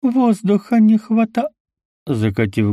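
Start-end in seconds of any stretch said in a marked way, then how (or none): 0.0-1.5 high, slow strangled fading words; running out of air; gasping for air. A narrator's reading. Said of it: "задыхаясь".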